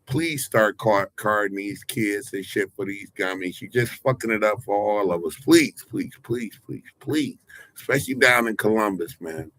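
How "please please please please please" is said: pleading. Real, not acted. Begging gas stations to card kids.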